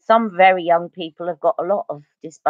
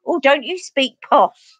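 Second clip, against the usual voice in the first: drawn-out, higher mock remark; higher, slow teasing imitation; imitated hometown acquaintances; 6 semitones higher, slower than usual. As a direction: mimic old schoolmates teasing about a posh accent. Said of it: "they say".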